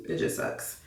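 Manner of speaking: a whispered gripe to the camera; whispered aside. Real, not acted. Muttered complaint about January birthday.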